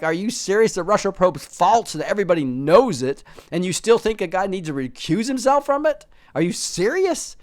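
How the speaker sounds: loud, high disbelief; incredulous. Real, not acted. Vlogger scoffing at Schumer's recusal call, incredulous.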